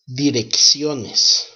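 Direcciones slowly, every syllable distinct; slow pronunciation model. Shown as a demonstration. Teacher modelling the whole word after spelling it, slow and careful. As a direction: draw out Direcciones carefully in Spanish. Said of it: "Let's sound out how to pronounce direcciones".

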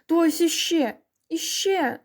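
high, excited jeering; squealed taunt. A narrator's reading. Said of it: "верещав Митько".

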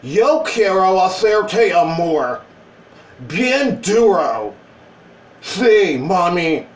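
slow, heavily stretched Spanish come-on; hammed-up bad Spanish accent, dragging each word; unsexy Spanish accent. Shown as a demonstration. Showing Spanish that is not sexy, hammed-up accent. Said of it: "The opposite is not sexy".

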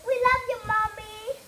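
put-on mild sing-song little kid; sweet child voice. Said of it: "We cry".

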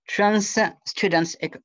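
English accent. Real, not acted. Presenter introducing a Canadian organisation, in an English accent. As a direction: read the English title the English way, with an English accent. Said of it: "excusez-moi pour mon accent anglais".

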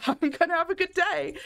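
high, laughing mock determination; forced cheer. Puddle-soaked but determined, mock-cheery and high. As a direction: insist brightly through the laughter.

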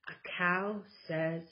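lively, sing-song picture book reading; reading to children. Acted. Mom reading a board book to her kids, animated storytelling. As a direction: read it out like story time for toddlers.

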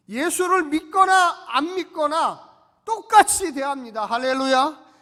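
loud, slow pulpit declaration; rousing sermon cry. Acted. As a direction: lift the hall with the promise. Preaching at full force. (우렁찬 설교 외침)

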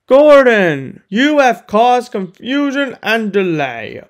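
a boss scolding his engine; stern scolding. Acted. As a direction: tell him off firmly. Sir Topham scolds Gordon.

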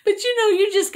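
high giggly burst breaking into words; laughing. Real, not acted. Tickled by her own joke, laughing at it. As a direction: talk through real giggles. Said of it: "I got myself tickled".

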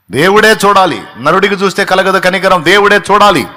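preacher assuring the weeping congregation, loud and high; preaching at full force. Real, not acted. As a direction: lift it up and declare it. Sermon climax over music.

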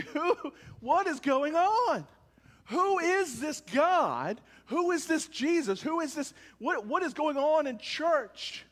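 high, puzzled asking; curious questioning. Retold or imitated. Preacher voicing curious neighbours asking about church, puzzled. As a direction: wonder aloud who this is.

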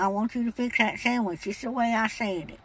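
put-on cranky old lady voice. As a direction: play a stubborn old woman customer. Caller holds an old lady voice.

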